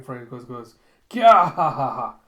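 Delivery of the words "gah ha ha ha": very loud, high open-throated cackle; anguished mad laugh. Acted. Zapan weeps with head thrown back, loud mad laughter. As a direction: burst into a wild, despairing laugh. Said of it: "throws back his head, just tears streaming".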